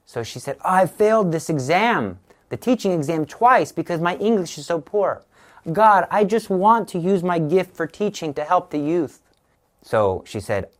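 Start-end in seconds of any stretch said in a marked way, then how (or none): 0.6-9.2 higher-pitched mock lament; retold pleading. Mother telling God about her failed exam, pleading. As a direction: plead earnestly, as if quoting her prayer.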